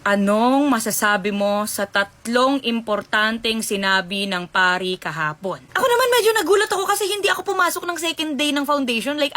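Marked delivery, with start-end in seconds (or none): 0.1-5.6 lower, slow voice of the male school owner; lightly voiced school owner, low and slow; male judge. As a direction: play the stiff man asking the question. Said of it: "So, lalaki yun siya".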